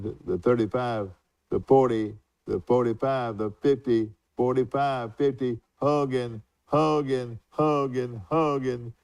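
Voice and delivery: lightly imitated play-by-play call, building yard by yard; Pappy Talbot. Retelling a radio call of Hogan's run, mild play-by-play. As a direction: retell a touchdown run, pitch lifting on the name. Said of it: "he said it just like that".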